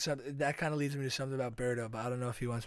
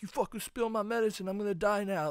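high-pitched imitation of an outraged victim; mock panicked accusation; 6 semitones higher than usual. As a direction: play up a scammer's fake distress, pitched up. Imitating pill-bottle scammer's accusation.

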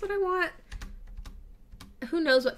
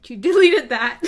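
mock viewer reaction; 2 semitones higher, 11 dB louder than usual. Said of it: "they're gonna be like".

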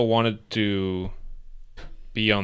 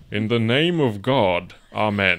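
put-on old-timey voice; slower than usual. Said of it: "a old-timey voice".

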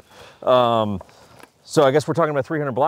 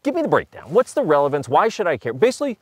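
much higher voice quoting a friend; imitating a buddy; 7 semitones higher than usual. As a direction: play the curious buddy, pitched up. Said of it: "he's like".

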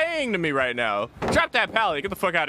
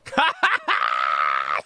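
whooping laugh. Real, not acted. Huge win moment.

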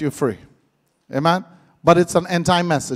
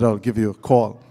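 much lower crooning promise; fake deep voice; 12 semitones lower, 5 dB quieter than usual. Man ending a flirty call, deep crooning. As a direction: end on the deep put-on voice. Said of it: "That is not a real voice".

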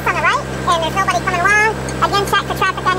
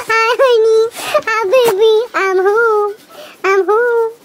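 pet greeting; 3 semitones higher, 4 dB louder, much slower than usual. Real, not acted. Greeting the dog warmly.

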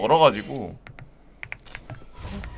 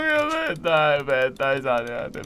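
mocking voice; 14 semitones higher, 5 dB louder, slower than usual. Mocking someone's advice.

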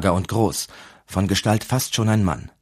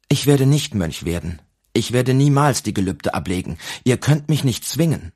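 defiant protest; 5 semitones higher than usual. Acted. Boy refusing to become monk.

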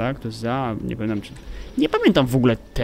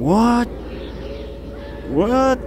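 high-pitched baffled question; stunned disbelief; 9 semitones higher than usual. Real, not acted. Player baffled by the game, high stunned question. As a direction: squeak it out, thrown completely. Baffled by what just appeared.

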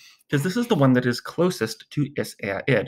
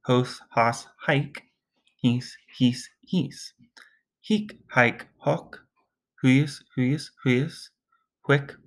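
a hint of a snake hissing the Latin forms, lightly done; much slower than usual. Shown as a demonstration. Teacher playing a snake to drill hic haec hoc, light hiss. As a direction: lean on the s sounds like a mild snake. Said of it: "Imagine you're a snake with a bit of an accent".

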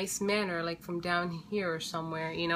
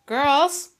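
calling out; 7 semitones higher, 10 dB louder than usual. Real, not acted. Calling kids.

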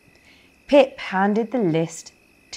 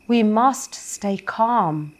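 calm; 3 semitones higher, slower than usual. Acted. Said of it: "said Pip".

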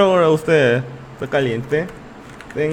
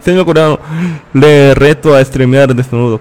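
louder teasing dare; mock challenger; 6 dB louder than usual. Viewer daring the Korean streamer, loud teasing dare. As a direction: throw down the dare with a grin.

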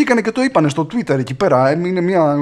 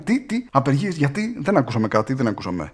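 mock feigned deafness; 3 semitones lower, 6 dB quieter than usual. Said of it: "οι δημοσιογράφοι ... λέγανε".

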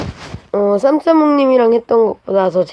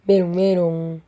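taunting. Acted. Taunting in game.

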